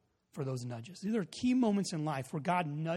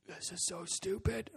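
reluctant grumble; 3 semitones higher, 8 dB quieter, slower than usual. Retold or imitated. Friend grumbles at the nudge.

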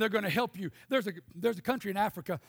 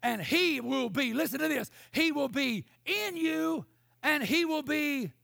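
full-force preaching; 3 semitones higher than usual. Acted. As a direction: preach it hard to the Auburn crowd. Preaching builds up again.

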